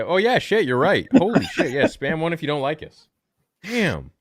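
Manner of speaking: loud, high, laughing realization; excited laughing. Real, not acted. Realizes the engagement trick.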